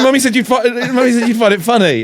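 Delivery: lightly hammed child on the verge of tears; imitating a crying child. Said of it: "he burst into tears".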